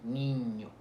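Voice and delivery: niño with a held palatal NY; Ñ sound. Shown as a demonstration. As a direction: lean on the Ñ in niño. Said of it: "Vean como".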